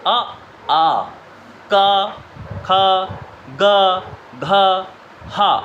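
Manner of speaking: each letter said alone with pauses; sounding out letters. Shown as a demonstration. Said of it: "ये word बोल करके देखिए". (कंठ से एक एक वर्ण बोलना)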